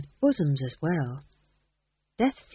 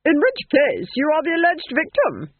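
calm duchess; 9 semitones higher, 6 dB louder than usual. Acted. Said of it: "said the Duchess calmly".

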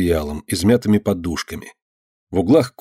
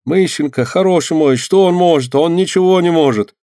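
frightened mumble; 8 semitones higher, 3 dB louder than usual. A narrator's reading. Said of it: "испуганно забормотал Малайка".

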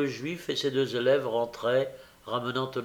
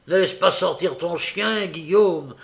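louder, higher alarmed call; urgent cry; 5 semitones higher, 5 dB louder than usual. A narrator's reading. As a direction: call out in alarm to stop him. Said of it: "s'écria Nancy".

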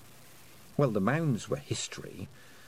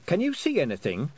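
calls across to him, a bit louder; calling out; 5 semitones higher, 4 dB louder than usual. A narrator's reading. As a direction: raise the voice to reach him. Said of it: "she called".

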